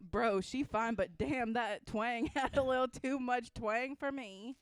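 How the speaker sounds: mock example sentence. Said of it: "can you use it in a sentence".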